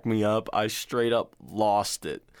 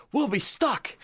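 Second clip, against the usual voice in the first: much higher, squeaky panic; panicked extra; 13 semitones higher than usual. Retold or imitated. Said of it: "He's like".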